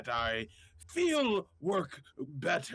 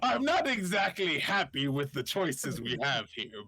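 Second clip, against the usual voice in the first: laughing. Real, not acted. Laughing through in-character complaint.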